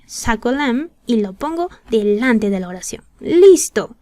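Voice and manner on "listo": cheerful exclamation. Real, not acted. Lesson step done, cheerful.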